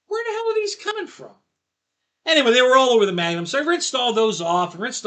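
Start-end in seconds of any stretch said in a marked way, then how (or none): 0.1-1.4 puzzled outburst. Retold or imitated. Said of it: "And I'm".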